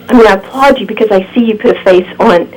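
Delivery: strained, fading voice; hoarse voice. Real, not acted. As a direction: talk through a worn-out throat. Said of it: "I'm losing my voice".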